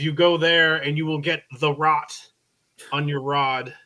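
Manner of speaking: lightly voiced Viking warrior; a hint of a gruff Viking. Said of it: "Viking voice".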